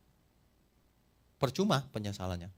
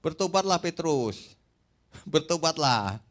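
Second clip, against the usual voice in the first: rooster preaching; 4 semitones higher, slower than usual. Acted. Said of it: "Kukuruyuk tiga kali".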